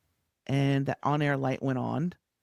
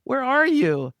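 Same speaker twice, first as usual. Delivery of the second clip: much higher, loud exasperated shout; 10 semitones higher, 8 dB louder, slower than usual. Retold or imitated. Producer demands to know where the host is, exasperated and loud. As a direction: yell it, at the end of your rope.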